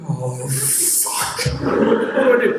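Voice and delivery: mock panic, climbing sharply at the end; acted panic. Caught out as dad climbs the stairs, mock panic.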